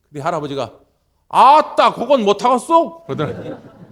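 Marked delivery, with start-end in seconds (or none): 1.3-3.0 put-on louder and higher, a stubborn old fisherman's balk; loud rural grandpa protest; loud dialect refusal. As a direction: blurt out the refusal, slow and loud.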